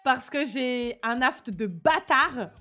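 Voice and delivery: slight lisp, s sounds slushy; talking with a mild lisp. Real, not acted. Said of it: "je zozote légèrement".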